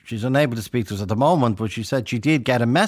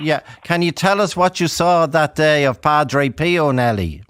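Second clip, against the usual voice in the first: to someone hard of hearing; 4 semitones higher, 6 dB louder than usual. Real, not acted. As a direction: raise your voice so she can hear. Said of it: "Can you talk up, please?".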